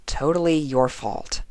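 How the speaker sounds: a touch of a sulky grumble; sulky mutter. Acted. Twilight blaming Rainbow, sulky mutter. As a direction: mumble it under your breath, sulking. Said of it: "muttered Twilight sulkily".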